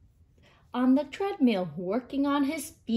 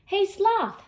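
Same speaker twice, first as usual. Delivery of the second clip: higher, louder call to a friend; bright-eyed storybook holler, pitched up; 9 semitones higher, 5 dB louder than usual. A narrator's reading. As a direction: call over to get his attention. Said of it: "called Monkey".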